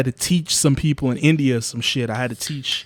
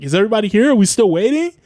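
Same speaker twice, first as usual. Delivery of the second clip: higher, chirpy meeting voice; mock polite host; 8 semitones higher, 4 dB louder, faster than usual. Checking attendance on the call, high mock politeness. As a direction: sound overly polite to coworkers.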